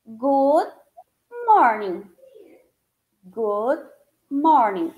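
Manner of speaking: good morning said slowly, word by word; model greeting. Shown as a demonstration. Teacher drills good morning for the class. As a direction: spell out good morning for learners. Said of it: "como que a gente vai dizer?".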